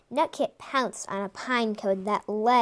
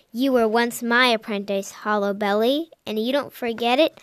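scolding; 6 dB louder than usual. Acted. Old cat rebukes former apprentice.

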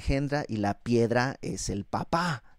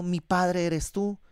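slow reading; 4 semitones higher, much slower than usual. Shown as a demonstration. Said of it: "que dicen a un leño".

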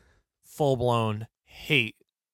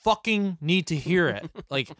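raised, mock angry shut-up rant; imagined telling off; 4 semitones higher than usual. To the old man talking in the theater, mock angry rant. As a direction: tell him off like you mean it, half laughing. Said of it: "I so bad wanted to turn to him and just go".

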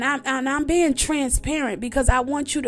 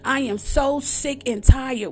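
fed-up outburst; 4 dB louder than usual. Retold or imitated. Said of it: "I'm like".

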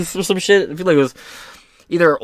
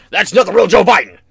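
mocking commenter; 4 semitones higher, 5 dB louder, faster than usual. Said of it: "people in my comments".

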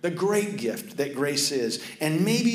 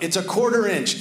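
higher, louder call from outside; retold yell; 5 semitones higher, 3 dB louder than usual. Brother on the roof warning the water is nearly over, loud call. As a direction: holler the last warning. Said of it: "my brother yells out".

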